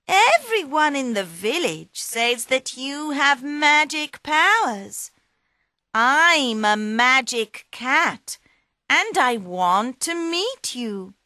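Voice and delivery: butter up the ogre, pitched high; flattering cat. Acted. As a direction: Puss flattering the ogre to get inside.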